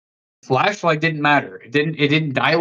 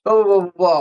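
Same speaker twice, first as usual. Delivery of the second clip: retold panic, pitched up, no real tears; mock-scared pleading, higher voice; imitated frightened pleading; 4 semitones higher than usual. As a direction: imitate a scared friend begging to leave. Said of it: "shaking, crying".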